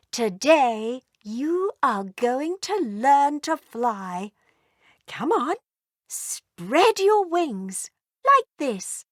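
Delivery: a loving mother dragon doting on her firstborn; tender mother dragon. Acted. Mummy Dragon teaches flying.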